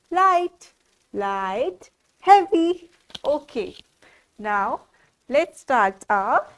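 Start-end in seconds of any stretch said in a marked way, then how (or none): 0.1-0.7 light said high and louder. Shown as a demonstration. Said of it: "this is light and this is heavy". 1.1-1.9 light said low and soft. Shown as a demonstration. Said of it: "this is light and this is heavy". 2.2-2.9 heavy said high and loud. Shown as a demonstration. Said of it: "this is light and this is heavy".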